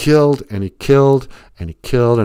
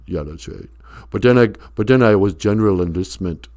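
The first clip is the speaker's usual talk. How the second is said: Stallone voice. Acted. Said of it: "sounded exactly like Sylvester Stallone".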